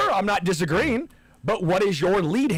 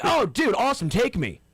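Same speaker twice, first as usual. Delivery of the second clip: mock-eager, pitched up at the start; excited; 6 semitones higher than usual. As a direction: play a friend keen to come along. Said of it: "He's more excited than".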